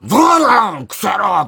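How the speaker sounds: loud barked insult, impression style; mock tough shout. A junior imitating him, with a loud shout. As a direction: bark it out like a rough impression. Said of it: "とかなんかやった時に".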